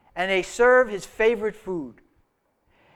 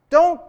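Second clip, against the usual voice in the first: Don't punched high and louder; stress on Don't; 7 semitones higher, 6 dB louder than usual. Real, not acted. Preacher stressing Jesus's command, Don't punched high and louder. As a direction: hit the word Don't hard.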